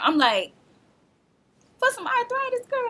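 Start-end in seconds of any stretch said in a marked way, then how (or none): 1.8-2.9 mild mock disbelief. Disbelief at being rushed to a room.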